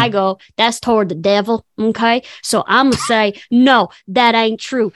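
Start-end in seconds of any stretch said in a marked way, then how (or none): 0.6-2.2 put-on Southern accent. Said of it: "Where'd your Southern accent come from?". 3.5-4.9 put-on Southern accent. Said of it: "Where'd your Southern accent come from?".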